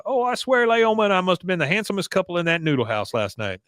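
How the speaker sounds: hammed-up proud boast; boastful Bill. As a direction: brag about the date.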